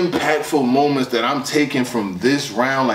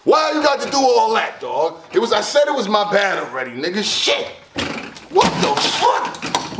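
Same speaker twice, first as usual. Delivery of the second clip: high, pleading disbelief; exasperated outburst; 4 semitones higher than usual. Real, not acted. Reviewer apologising to the rapper for doubting him, exasperated. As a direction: protest as if begging for mercy. Protesting rapper's line, overwhelmed.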